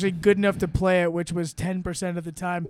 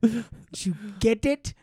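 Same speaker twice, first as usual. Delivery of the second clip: cocky drawl; 3 semitones higher, slower than usual. Retold or imitated. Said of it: "imitating cocky Sean".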